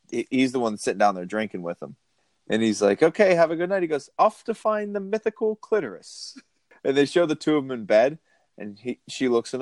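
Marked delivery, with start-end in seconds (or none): 3.0-3.8 lightly imitated young man, higher; a higher, boyish mock farewell; hint of a young man's voice. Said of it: "he has that really, the voice". 4.2-6.4 high, boyish mock proclamation; pitched way up like an eager young man; Jack McBrayer. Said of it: "he has that really, the voice".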